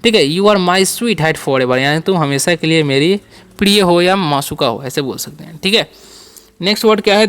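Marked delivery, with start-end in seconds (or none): 0.2-1.8 very slow, word by word English; slow dictation. Shown as a demonstration. Teacher to students, slow dictation. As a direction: spell it out slowly for the class.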